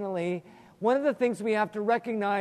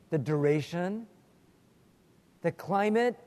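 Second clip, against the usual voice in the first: earnest prayer. Acted. Pastor opening his Bible lesson with prayer, reverent and unhurried. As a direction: pray over the class, unhurried and devout.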